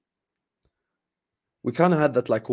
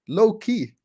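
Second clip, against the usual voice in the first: squeaky high tease; 9 semitones higher than usual. Pretend. Repeats it teasingly.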